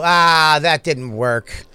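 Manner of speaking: mimicking a let-down gambler; mock disappointment. Friend mimics his gambling buddy after every roll, mock disappointment. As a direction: groan it slowly, drawing out the words.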